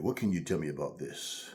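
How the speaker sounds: put-on low, softened old-movie tough guy; mock movie-serious voice, dropped low; seventies movie character. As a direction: imitate a seventies film hero asking questions. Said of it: "That's how they talked".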